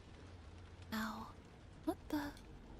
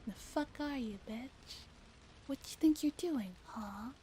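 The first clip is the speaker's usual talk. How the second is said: thug voice. Acted. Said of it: "Their, their speech is so, like, scattered".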